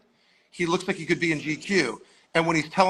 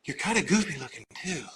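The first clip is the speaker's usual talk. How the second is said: stoned director; 5 dB quieter than usual. Retold or imitated. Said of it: "little stoner smile on his face".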